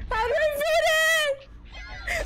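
very high, slow screamed question; frantic panic. Real, not acted. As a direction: wail it out, stretched and desperate. Repeats question in escalating panic.

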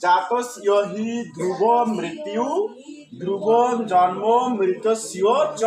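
slow, word by word reading of the verse; slow careful recitation. Shown as a demonstration. Teacher reads the Gita verse slowly to students, plain tone. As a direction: spell out each word of জাতস্য হি ধ্রুব slowly. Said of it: "তাহলে এখন আমাদের কি উচ্চারণ দাঁড়াইলো?".

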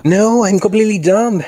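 high, loud cry of dismay; dismayed self-reproach. Real, not acted. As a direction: exclaim loudly, cursing your own mistake. Gasps at own mistake in game.

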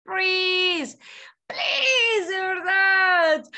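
high, loud pleading please. Real, not acted. Teacher begs students to practice, high and loud. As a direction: beg them sincerely, loud and high.

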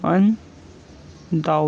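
अनडाउटली stretched out very slowly; teacher slowly dictating अनडाउटली; slow dictation. Shown as a demonstration. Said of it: "next है अनडाउटली".

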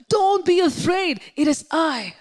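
high, loud shout across a distance; loud calling out. Acted. Jesus calling to disciples far away, shouting loudly. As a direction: project it so far-off listeners can hear. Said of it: "Loudly he would have spoken".

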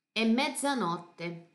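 slow, drawn-out MEZZANOTTE. Acted. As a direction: let the word mezzanotte hang slowly. Father's line from song.

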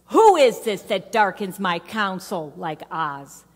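loud, commanding challenge; stern Oz-like God. Retold or imitated. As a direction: lay down the law like Oz. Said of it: "This is how we hear it".

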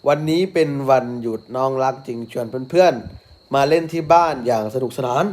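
slow, storybook read-aloud; reading to a child. Acted. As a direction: read it out for a little one, unhurried. Reads picture book to child.

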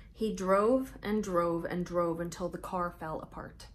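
lively storybook read-aloud with big pauses; reading to children. A narrator's reading. Host reading Mouse Tales to young viewers, bright storytelling voice. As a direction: read it out like story time for little kids.

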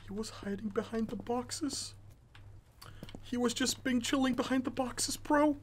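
hoarse after screaming; voice gone. Real, not acted. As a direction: talk with a spent voice. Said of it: "I have no voice left".

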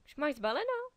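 1 mother calling in. A narrator's reading. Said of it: "nakoukla do pokoje Andyho maminka".

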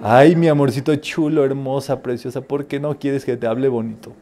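mother answering daughter with mild mock sweetness; sweet talk. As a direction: tease her back with sweet words. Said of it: "No me hables bonito".

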